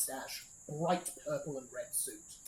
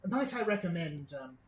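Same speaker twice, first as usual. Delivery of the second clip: designer's hushed warning; 5 semitones higher, 4 dB louder than usual. Acted. Designer warning about the Baron.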